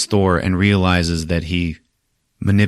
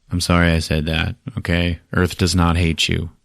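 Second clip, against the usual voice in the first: low, understated retold apology; mild apology; 3 semitones lower, 3 dB quieter than usual. Thor apologizing to hurt Hulk, mildly soothing. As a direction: bring the pitch down and ease off.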